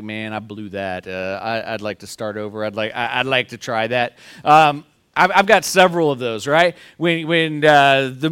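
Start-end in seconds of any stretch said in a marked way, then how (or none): 0.0-4.2 much softer, lower mutter to himself; regretful self-talk. Retold or imitated. A parent privately regretting a misstep, hushed and low. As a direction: sigh it out as if alone after a mistake. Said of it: "You just been like".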